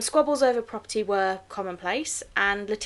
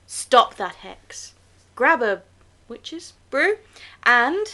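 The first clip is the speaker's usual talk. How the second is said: spooky; 3 semitones higher, 7 dB louder, much slower than usual. Acted. Spooky show intro catchphrase.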